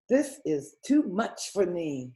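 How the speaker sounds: pinched nasal voice. Acted. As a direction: speak through the nose. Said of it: "said through his nose".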